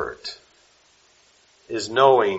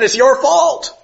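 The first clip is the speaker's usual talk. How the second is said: mock harsh accusation; 14 semitones higher, 7 dB louder, slower than usual. Christian blaming grieving mother.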